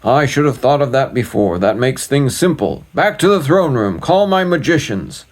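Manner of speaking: a busy little king taking charge; fussy king. Acted.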